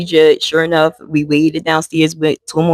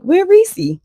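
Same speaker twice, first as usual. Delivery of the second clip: urgent demand. Retold or imitated. Auntie demanding where mom is.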